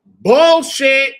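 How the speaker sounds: loud, high outburst of bullshit; shouting in court. Retold or imitated. Calling out the lying attorney in court, shouting. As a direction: blurt it out at full volume. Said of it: "And I said".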